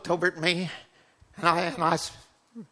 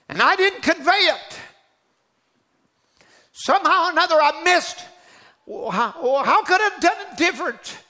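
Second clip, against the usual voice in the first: anguished lament; 5 semitones higher than usual. Retold or imitated. Lament to God after failing.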